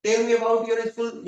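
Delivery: very slow, word-by-word English example; slow careful reading. Shown as a demonstration. Teacher reading an example to students, very slow and deliberate. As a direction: dictate each word slowly for learners. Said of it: "Hindi में इसका इस्तेमाल".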